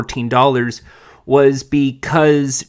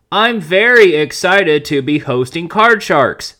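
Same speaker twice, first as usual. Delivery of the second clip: mock excited quote; 3 semitones higher, 3 dB louder than usual. Reads host's quote from press release.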